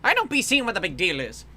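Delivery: thickly laid-on Irish accent. Shown as a demonstration. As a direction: complain in a thick practised Irish brogue. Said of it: "practicing doing an Irish accent".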